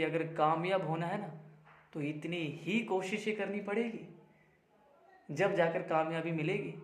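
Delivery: softly spoken, measured counsel; earnest advice. Acted. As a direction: impart the lesson quietly to a pupil. बाबा लड़के को सीख देते हैं. (धीमी आवाज़ में सीख देते हुए)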